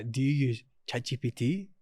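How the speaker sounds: silly cartoon kid voice; imitating Boris doing Cartman. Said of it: "Like Cartman from, like, South Park".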